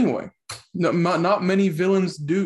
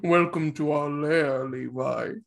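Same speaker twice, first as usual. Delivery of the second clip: slow theatrical villain menace; 3 semitones lower than usual. Acted. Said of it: "doing the voices".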